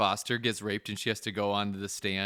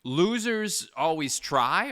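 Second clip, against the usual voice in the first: Gerard Butler quote; 3 semitones higher, much slower than usual. Retold or imitated. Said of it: "sounding like Gerard Butler".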